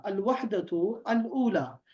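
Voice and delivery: الوحدۃ الاولی read very slowly, الاولی stressed; careful model reading; slow full reading. Shown as a demonstration. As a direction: read the whole title out slowly. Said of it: "یہ میں نے لکھا ہے الاولی".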